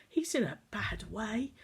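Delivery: worried hushed whisper. Acted. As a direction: breathe it out in worry. Worried aside about boy.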